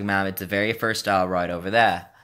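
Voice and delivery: put-on American work accent. Store worker directing customer to first aisle, American accent. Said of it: "I was definitely using this accent".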